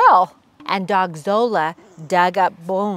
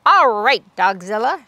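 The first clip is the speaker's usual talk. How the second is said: louder called-out challenge; shout; 5 dB louder than usual. Acted. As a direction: call out to the giant dog. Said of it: "shouted the Big Cheese".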